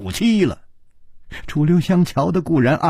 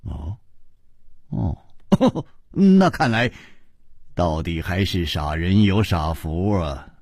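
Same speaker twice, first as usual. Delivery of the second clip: laughing; 8 semitones lower than usual. A narrator's reading. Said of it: "笑着说".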